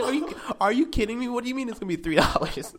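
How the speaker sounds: high-pitched retold disbelief; incredulous protest. Recalling the gift card charge, incredulous.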